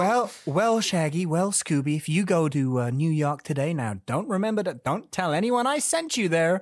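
lightly voiced star impression; a hint of a screen diva's sing-out; Barbra Streisand. Matchmaker sending the two clerks to New York, light star impression. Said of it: "That was my Barbra Streisand impression".

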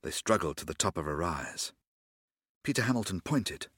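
audiobook narration with character voices; dramatic reading of a Doctor Who novel; story narration. A narrator's reading. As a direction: read the adventure aloud, letting voices take over. Reads audiobook story aloud.

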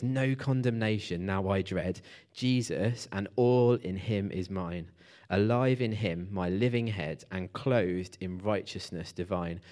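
measured, slow-ending poetic reading; hymn verse recital. Acted. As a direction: recite the hymn line by line with weight.

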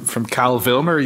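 "Cal Vilmer" said for Val Kilmer, first sounds swapped; jumbled syllables. Shown as a demonstration. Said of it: "Is that a spoonerism?".

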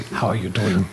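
bad mock-French charmer's greeting; horrible French accent. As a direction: imitate a flirty Frenchman, pitched low, badly. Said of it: "That was a horrible French accent".

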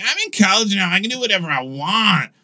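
lightly voiced reckless freshman; carefree student. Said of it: "You know how you're like".

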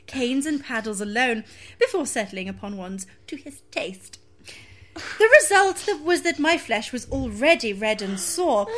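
primly proper, barely holding laughter. Acted. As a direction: read it like a prudish lady. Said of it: "in the most prim voice possible".

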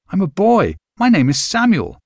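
put-on a small boy insisting through tears; boy near tears. A narrator's reading. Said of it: "I might burst into tears".

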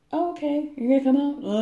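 imitating Sarah. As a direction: sing it up brightly, like a worried friend.

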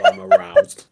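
high, hammed-up swoon; mock-thrilled host gasp; flirty teasing dating host. Host reacts to an answer.

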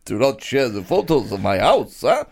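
lightly put-on rabbi accent, grumbling; a hint of an old rabbi kvetching; mock Jewish accent. Complaining to a friend as an old rabbi, lightly put-on accent. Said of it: "funny Jewish accent".

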